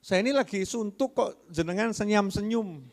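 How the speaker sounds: a touch of annoyance at his smiling; getting emotional. Retold or imitated. Wife snaps at the smiling teacher, mildly irritated. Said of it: "yang ngomong mulai rada emosi".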